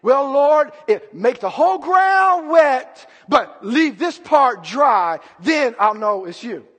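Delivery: loud, slow bargaining with God; lightly acted, drawn-out plea to the Lord; Gideon. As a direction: spell out the test loudly and slowly. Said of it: "You're like Gideon".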